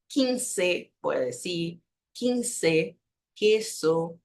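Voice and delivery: quince and queso as careful Spanish examples; Spanish pronunciation. Shown as a demonstration. Teacher showing there is no distinction, careful pronunciation. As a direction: say quince and queso with a plain k sound. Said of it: "No hay distinciones en la pronunciación".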